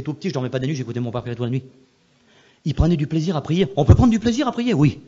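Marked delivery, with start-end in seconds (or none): 3.8-5.0 preaching emphasis. Acted. Preacher insists on joy in prayer.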